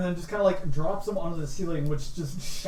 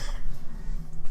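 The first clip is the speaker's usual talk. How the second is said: coughing. Acted. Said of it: "Just keep coughing".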